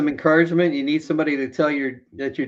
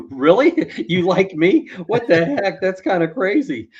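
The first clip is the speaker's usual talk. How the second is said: mock surprise; 6 semitones higher, 4 dB louder than usual. Mock surprised reaction to confession.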